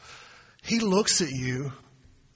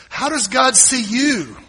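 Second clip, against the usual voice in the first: louder, slower, higher second time; booming repeat; 8 semitones higher, 7 dB louder, slower than usual. Acted. Preacher pressing the congregation with a louder repeat. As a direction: lean in hard on the repeat. Repeated question building to shout.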